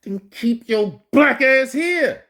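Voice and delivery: reacting to the clip, shouting at the woman to stay there; exasperated yell. Real, not acted. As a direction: fire it back at the screen in disbelief. Yelling back at the video.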